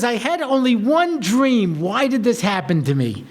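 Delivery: mild mock-crying lament, starting high and slow; tearful lament. Girl cries to her rabbi about seminary, mildly tearful. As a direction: imitate a tearful plea, lightly. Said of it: "she starts crying".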